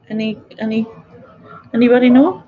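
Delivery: rough attempt at an impersonation, rising into the question; Ron Weasley. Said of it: "doing an impersonation of Ron Weasley".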